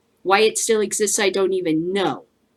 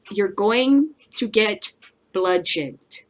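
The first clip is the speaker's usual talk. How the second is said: slow drawn-out punchline; slower than usual. Acted. Refrain drawn out.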